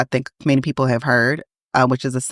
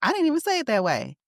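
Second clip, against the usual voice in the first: mock defensive denial; 9 semitones higher, 6 dB quieter, faster than usual. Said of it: "who am I to be like".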